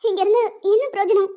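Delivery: tearful, heartbroken protest; crying. Acted. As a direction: lament his suspicion through tears. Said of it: "கண்ணீர் எங்க இருந்து தான் வரும்னே தெரியல". (அழுகையோடு புலம்புதல்)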